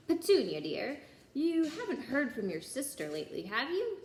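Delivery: lightly voiced nervous husband, rising; a hint of awkward, careful asking. Husband nervously probing his wife, hesitant and light. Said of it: "He cleared his throat".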